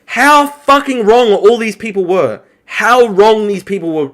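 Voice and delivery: gloating emphasis on "how fucking wrong"; emphatic stress. Real, not acted. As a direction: really lean on HOW and WRONG. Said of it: "Just to really emphasize here".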